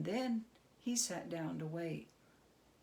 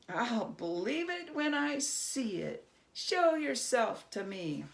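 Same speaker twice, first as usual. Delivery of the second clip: higher, daring tone; challenging Herschel; 4 semitones higher, 5 dB louder than usual. Acted. Herschel daring the goblin to show himself. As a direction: call his bluff.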